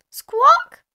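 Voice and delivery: very high, loud parrot squawk; Polly Parrot. A narrator's reading. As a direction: screech out like a parrot. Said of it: "Polly Parrot opened her beak".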